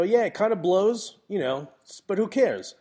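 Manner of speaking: loud, breezy, hammed-up who-cares voice; mock carefree shrug. Photographer shrugging off work on vacation, mock carefree.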